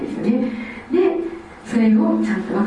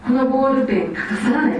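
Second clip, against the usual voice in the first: laughing quote; 4 semitones higher than usual. Retold or imitated. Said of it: "私大阪から来た時に".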